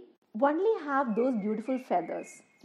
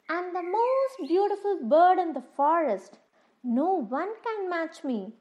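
proud peacock voice; 5 semitones higher than usual. Acted. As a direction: show off like a vain peacock. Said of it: "said the peacock".

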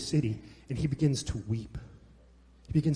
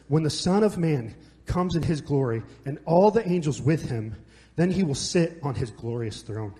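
scripture reading. Acted. Reads scripture aloud.

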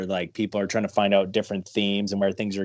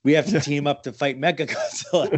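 goofy monster voice, a bit louder; 4 semitones higher, 3 dB louder than usual. Pretend. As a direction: play the giant monster teaming up. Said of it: "'cause that's my monster voice".

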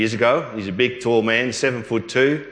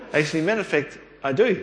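high laughing reply, amused; 7 semitones higher, faster than usual. Retold or imitated. Answering the alien question to John, laughing.

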